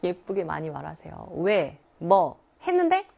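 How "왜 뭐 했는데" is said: aggressive retort. Acted. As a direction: act out a prickly comeback to a parent. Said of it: "그렇게 꼭 공격적으로".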